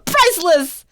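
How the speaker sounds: loud laughing exclamation; laughing delight. Acted. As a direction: crow it with a laugh. Holmes laughs at their misfortune.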